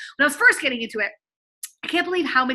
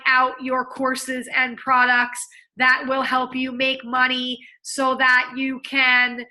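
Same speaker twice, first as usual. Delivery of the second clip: robot speak. Shown as a demonstration. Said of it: "what is robot speak".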